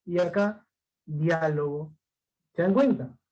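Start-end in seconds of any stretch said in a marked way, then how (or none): 1.1-2.0 diálogo with the A leaned on; stress on second syllable. Shown as a demonstration. Teacher reading another example, stress on Á in diálogo. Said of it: "la mayor fuerza de voz".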